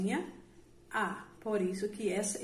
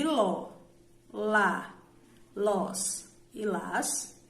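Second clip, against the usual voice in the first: slow spelled-out endings; much slower than usual. Shown as a demonstration. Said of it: "acompanhadas de".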